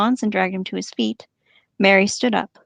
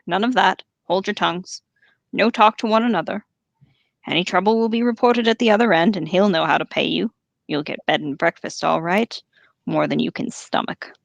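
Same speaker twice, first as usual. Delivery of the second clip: orc voice. Acted. Orc Ugluk speaking.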